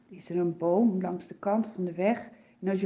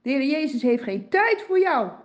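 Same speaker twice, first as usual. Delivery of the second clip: louder, scolding hush; hushing crowd; 2 semitones higher, 5 dB louder than usual. Acted. Passers-by scold the beggar, a little louder.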